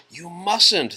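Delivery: sharp, loud, high cry of protest; exclaiming. A narrator's reading. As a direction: burst out in protest. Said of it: "the old woman exclaimed".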